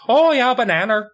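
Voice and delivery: high, hammed-up British imitation; exaggerated British "banana" with a tacked-on r; mock British accent. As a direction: imitate a Brit, pitched right up. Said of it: "It's also how they say banana".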